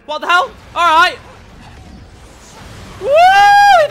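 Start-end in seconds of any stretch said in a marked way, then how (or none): 3.0-3.9 very high, loud held whoop; victory whoop. Real, not acted. Player whooping after beating an enemy, triumphant. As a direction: let out a triumphant cry.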